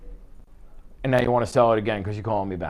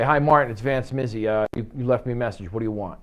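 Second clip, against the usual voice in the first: curt callback. Shown as a demonstration. Agent calling back blind, mildly impatient and confrontational. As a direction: brush him off, you've got no idea who he is. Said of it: "now it becomes a confrontational situation".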